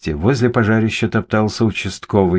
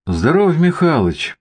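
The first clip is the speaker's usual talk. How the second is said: high, drawn-out hello; hearty greeting; 9 semitones higher than usual. A narrator's reading. Artyom greets Mikhalych, heartily. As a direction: greet an acquaintance, voice lifted.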